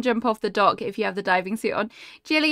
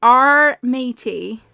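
pirate voice; 6 dB louder, much slower than usual. Pretend. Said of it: "pirate joke callback".

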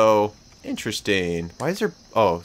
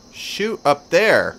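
higher, louder, slow stretched yell; frustrated shout; 6 semitones higher, 5 dB louder, much slower than usual. Real, not acted. Gamer yelling at his character to shoot, frustrated shout. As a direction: bark the order out, exasperated.

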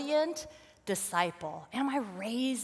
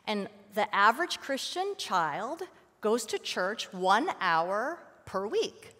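ordinary talk, nothing marked

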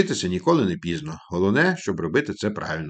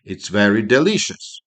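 slow model phrase; slower than usual. Shown as a demonstration. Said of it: "коли смачно".

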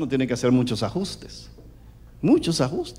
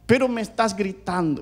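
mildly plaintive imitation of a wife; complaining wife; 5 semitones higher than usual. Wife repeats her complaint to husband, plaintive. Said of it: "me decía".

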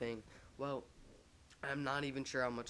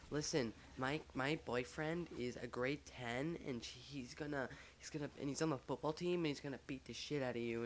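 lightly mimicked bragging girl; threatening girl imitation; 2 semitones higher than usual. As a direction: imitate her warning, drawing words out. Retold girl threatening with her boyfriend.

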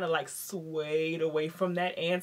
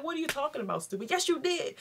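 mock outrage; 9 semitones higher, faster than usual. Wife confronting lying husband.

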